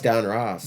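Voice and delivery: "Don Ross" run together quickly; said fast. Shown as a demonstration. Host testing it said fast, "Don Ross" run together. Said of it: "if you say it fast".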